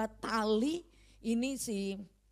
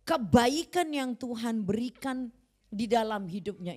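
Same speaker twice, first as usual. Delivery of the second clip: firm exhortation; 2 semitones higher, 5 dB louder than usual. Retold or imitated. Pastor exhorting grieving mother.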